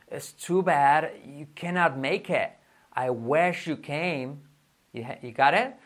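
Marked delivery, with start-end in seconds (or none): 0.1-4.4 very slow, drawn-out English example; slow model sentence. Shown as a demonstration. Teacher models English example for learners, slowly. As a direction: spell out each word unhurriedly.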